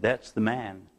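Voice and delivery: hushed, low retelling of a grieving woman; soft, understated sorrow; tearful reply. Retold or imitated. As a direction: quietly voice her grief, slightly held back. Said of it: "With tears on her cheek".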